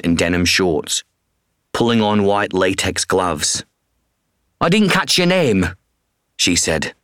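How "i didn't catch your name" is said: much higher woman's voice; woman vet voice. Acted. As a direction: voice the vet, curious. Woman vet's voice.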